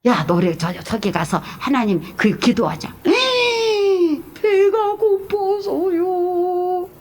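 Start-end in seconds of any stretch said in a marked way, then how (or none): 3.0-6.9 high, long-drawn mock wail; imitating someone moaning to get out of it; whiny excuse. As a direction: whine it out in a slow singsong. Acting out excuse of being hungry.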